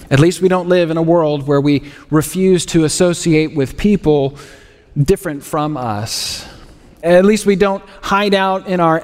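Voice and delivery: dry, deadpan sarcasm; mock reassurance, delivered straight-faced; sarcastic. Preacher teasing the congregation about echo chambers, sarcastic. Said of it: "If you don't pick up on my sarcasm".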